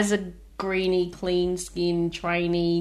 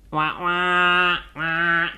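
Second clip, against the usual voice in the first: cawing like a crow; 2 semitones lower, much slower than usual. Shown as a demonstration. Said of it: "You can do a crow noise".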